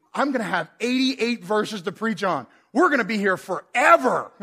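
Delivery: chuckling dread at a long sermon; half-laughing as the thought builds; laughing inner thought. Retold or imitated. Pastor imagining a huge psalm, laughing. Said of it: "I'm thinking".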